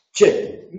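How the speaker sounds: che said as a long hushing ch; the sound che. Shown as a demonstration. Teacher demonstrating the che to the class, drawn out. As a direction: stretch the che so both moves are heard. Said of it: "la che".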